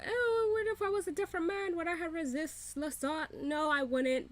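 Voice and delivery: high-pitched mocking imitation; Louis. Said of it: "Louis is talking about, like".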